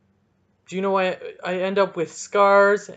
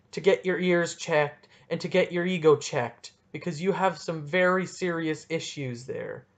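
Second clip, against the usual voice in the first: mock formal letter. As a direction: read it like a prim complaint letter. Reads his letter to officials.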